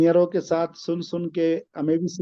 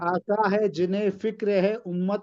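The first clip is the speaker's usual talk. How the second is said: slow, measured verse recital; poem recitation; slower than usual. Acted. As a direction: recite the couplet with weight. Recites a naat couplet.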